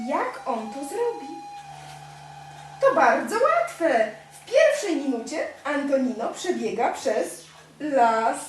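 lively storybook narration; steady storybook voice for a toddler; reading to a child. A narrator's reading. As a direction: read it like a bedtime picture book. Reads picture book to child.

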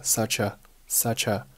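"such a" run together as suh-cha; linked such a. Shown as a demonstration. Teacher shows linking, "such a" as one word. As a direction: join the ch of "such" onto "a". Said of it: "such和a又连读成了such a".

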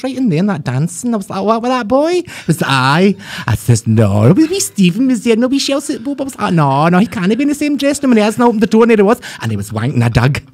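high, camp storytelling voice; camp accent. Acted. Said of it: "Do a camp accent".

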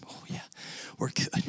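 soft whispered aside. Shown as a demonstration. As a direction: breathe it to yourself, barely audible. Whispered aside after repeat.

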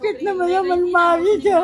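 high, tearful complaint; crying. Real, not acted. Woman tells the man she was beaten, crying. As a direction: wail it as a real hurt. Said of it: "કેમ રડો છો?".

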